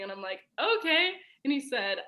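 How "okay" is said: high questioning okay; curious okay. Retold or imitated. To the boyfriend about to confess, high and curious. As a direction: sound expectant. Hearing he has something to say.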